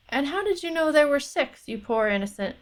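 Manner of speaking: high-pitched opening, settling down as it goes; spring the trap with mock puzzlement; pointed questioning. A narrator's reading. Lord catching his porter in a lie, pointedly questioning.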